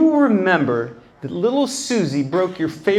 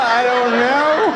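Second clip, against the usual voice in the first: slow, lingering I don't know; mock-puzzled slow shrug; drawn out; 4 semitones higher, slower than usual. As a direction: stretch the words slowly. Drawn-out repeated aside.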